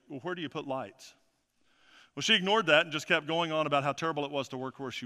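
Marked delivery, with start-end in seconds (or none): 0.1-1.1 soft, plainly put pastor's question; unadorned, softly spoken retold question; simple, understated question. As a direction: ask it quietly and simply, as the pastor. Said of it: "he said simply".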